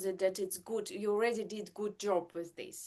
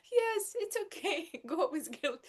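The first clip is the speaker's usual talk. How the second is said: higher, lightly voiced husband soothing her; husband reassuring; 8 semitones higher than usual. Mom imitating husband Marco calming her guilt, mildly reassuring. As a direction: play the husband calming her down, a bit singsong. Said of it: "And he's like".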